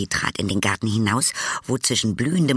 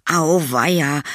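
higher, mock-alarmed exclamation; sudden cry; 5 semitones higher, 4 dB louder than usual. A narrator's reading. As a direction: cry out as if suddenly spotting trouble. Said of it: "rief Tom plötzlich". (plötzlicher, erhöhter Ausruf)

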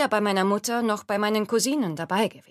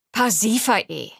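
slow, loud, insistent name call; 6 dB louder, slower than usual. Acted. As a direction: press her name firmly and slowly. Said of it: "insistierte ich".

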